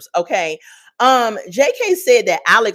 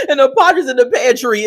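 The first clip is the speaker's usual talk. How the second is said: amused, breaking into laughter; laughing; 4 semitones higher, 6 dB louder than usual. Real, not acted. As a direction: laugh through the words, louder. Cracks up at viewer's comment.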